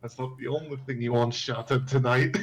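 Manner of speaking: private aside, said to himself. Voicing a character muttering a joke to himself: quietly muttering to himself. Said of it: "Thalrak's just quietly saying it to himself".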